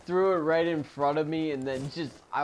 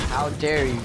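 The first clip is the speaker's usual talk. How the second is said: louder, huffy how dare you; mock indignation; 6 dB louder than usual. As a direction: play the offended noble. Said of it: "I'm about to say".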